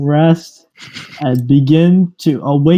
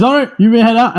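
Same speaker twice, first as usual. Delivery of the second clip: mayor voice; 6 semitones higher, faster than usual. Acted. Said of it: "He says".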